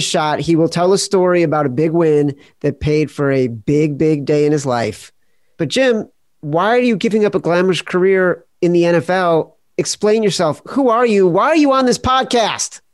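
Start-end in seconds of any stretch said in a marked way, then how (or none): 5.6-12.8 hammed-up demanding questions, climbing high; mock interrogation. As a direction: challenge the guest with mock indignation. Mock interrogation to introduce guest.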